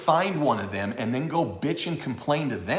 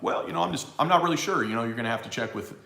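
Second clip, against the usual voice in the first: distinguished banker; 4 semitones lower, faster than usual. Retold or imitated. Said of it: "They may be very distinguished and be like".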